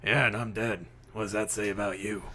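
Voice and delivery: lightly put-on voice, brisk patter; wry ghost sidekick. Ghost Marcus teases the detective, wry. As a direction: needle a friend as a dead companion.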